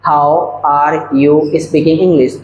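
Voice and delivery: slow teaching read with stretched words; slow dictation. Shown as a demonstration. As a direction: say it slowly for learners to copy. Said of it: "तो इसको बोलने का जो तरीका होगा".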